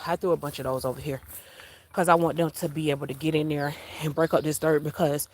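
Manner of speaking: breathing hard while talking; a bit out of breath; heavy breathing. Real, not acted. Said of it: "I'm breathing hard".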